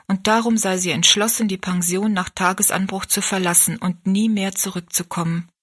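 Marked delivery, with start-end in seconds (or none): none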